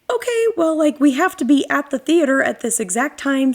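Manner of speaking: high, bright polite mom voice imitated; mimicking the overly polite mom; sweet polite mom. Imitating the mom texting about the movie time, high and sweet.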